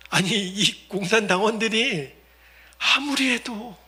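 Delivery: ordinary talk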